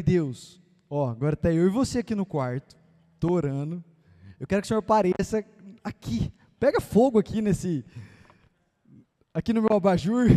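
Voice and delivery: playfully demanding prayer to God; mock prayer. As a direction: pray like a kid demanding a miracle. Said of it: "Eu falei".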